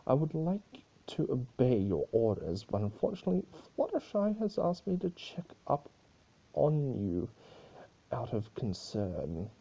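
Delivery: lightly voiced mocking chaos spirit; Discord teasing. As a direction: tease her with fake sweetness. Discord answers Celestia.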